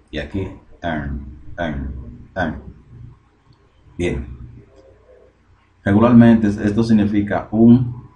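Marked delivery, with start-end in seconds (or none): 0.8-2.6 article "an" said as a short "en". Shown as a demonstration. Teacher showing how article "an" sounds, short "en". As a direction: say "en" for "an", short and separate. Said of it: "Se pronuncia".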